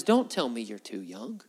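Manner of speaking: low, restrained voice of authority; God's reproof. Retold or imitated. Acts God's reproof of Jeremiah.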